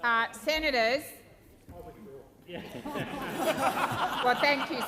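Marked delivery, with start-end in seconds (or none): 2.5-4.8 laughing. Real, not acted. President laughs at chamber heckling.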